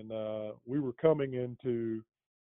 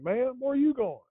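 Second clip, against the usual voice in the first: higher, pointed cop question to the passenger; imitating the cop; 12 semitones higher than usual. Retelling the cop quizzing the young passenger, mock pointed. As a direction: mimic the officer turning the same suspicion on her.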